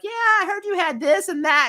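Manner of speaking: mock classmates. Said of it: "the classmates are like".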